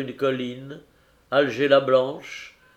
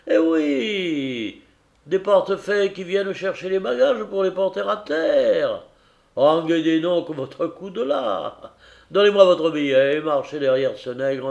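capitaine impatient; 3 semitones higher, 4 dB louder than usual. Acted. Capitaine explique et donne ses ordres.

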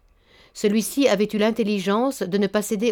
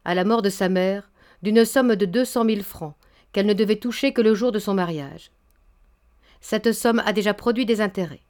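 composed. Acted. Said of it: "Il disait posément".

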